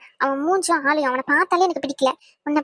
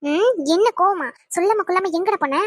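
mildly raised, indignant telling-off; angry scolding. Acted. Girlfriend scolding boyfriend who vanished for two days, angry. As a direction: scold him with threats and name-calling. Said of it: "செம்ம கோவத்துல இருக்கேன்".

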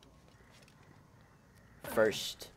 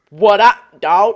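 mock greeting; 4 semitones higher, 12 dB louder, slower than usual. Real, not acted.

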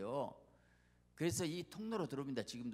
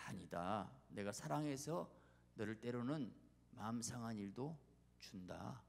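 soft, low answer from a patient God; understated divine reply, falling softly; lightly voiced God; 3 semitones lower, 5 dB quieter, slower than usual. God answers a believer asking for smooth roads, gentle firmness.

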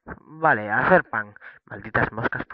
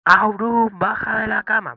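1 llamando fuerte; 12 semitones higher, 9 dB louder than usual. Acted. Llama al perro en la cama.

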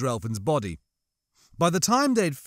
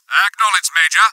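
loud, higher voice over the comm; stiff and formal; 4 semitones higher, 10 dB louder than usual. A narrator's reading. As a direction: acknowledge it stiffly through a radio. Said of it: "his voice stiff and formal".

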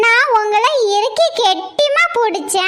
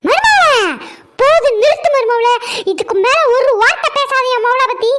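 stern shout. Acted. Mother-in-law silences daughter-in-law.

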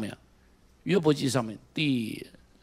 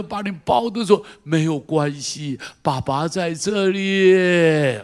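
God comforting; 3 dB louder, slower than usual. Retold or imitated. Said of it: "上帝在那里说".

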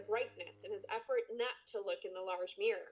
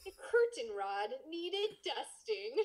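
slow deadpan; slower than usual. Shown as a demonstration.

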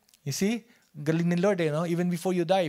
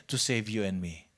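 hushed answer; 9 semitones lower, 7 dB quieter than usual. Acted. Preacher answers own question softly.

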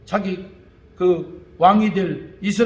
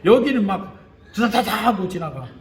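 laughing rattle. Retold or imitated. Imitates fast Gyeongsang talk.

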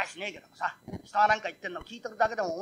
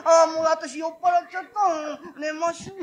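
tipsy woman; 5 semitones higher, 4 dB louder, slower than usual. Acted.

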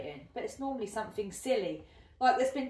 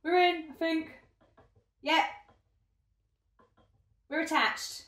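excited; 8 semitones higher, 4 dB louder than usual. Real, not acted. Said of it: "I don't know why I'm shouting".

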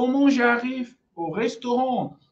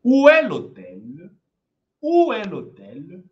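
slow demo; 3 semitones lower, 5 dB louder than usual. Shown as a demonstration. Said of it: "Olha essa frase aqui".

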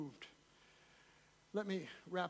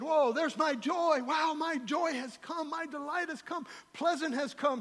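high, delighted acted welcome; hammed-up, high-pitched rejoicing; joyful greeting; 7 semitones higher, 5 dB louder, slower than usual. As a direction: exclaim it like townsfolk thrilled at an arrival. Townsfolk joyfully greet returning Naomi.

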